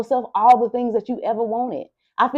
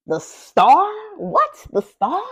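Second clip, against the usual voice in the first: surprised; 9 semitones higher, slower than usual. Real, not acted. Surprised at the Star card.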